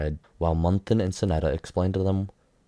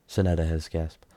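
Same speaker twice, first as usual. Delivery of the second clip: ordinary delivery, nothing marked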